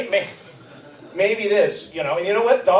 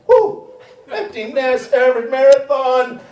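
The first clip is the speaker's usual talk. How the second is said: mock celebration; 8 semitones higher, 6 dB louder than usual. Runner near the finish of a marathon: high cheering whoop. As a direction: whoop much higher, then cheering. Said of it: "you're like".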